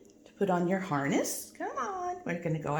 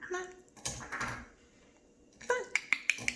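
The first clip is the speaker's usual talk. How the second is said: whispered coax; 11 semitones higher, 7 dB quieter than usual. Real, not acted. Coaxing the bird.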